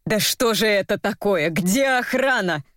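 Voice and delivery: mildly bewildered man; flustered. A narrator's reading. Andronov looks for security, flustered. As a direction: call for help, at a loss. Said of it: "растерянно сказал Андронов".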